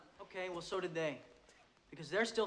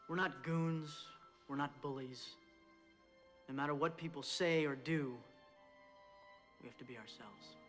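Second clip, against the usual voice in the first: halftime pep speech. Acted. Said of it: "halftime pep speech".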